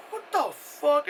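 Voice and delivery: high, incredulous mock reaction; stunned disbelief. Imitating the heroine seeing the invisible thing bloodied, stunned. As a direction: imitate someone shocked at what they see.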